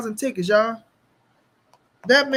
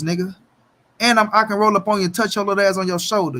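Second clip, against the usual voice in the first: loud brag; 2 semitones lower, 6 dB louder, faster than usual. Acted. Bragging loudly at rival.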